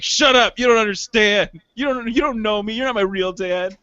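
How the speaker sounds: put-on sulky teenager snapping back; mock teen defiance.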